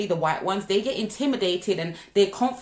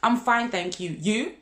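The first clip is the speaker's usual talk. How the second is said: polite reply. Shown as a demonstration. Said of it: "This is your default answer".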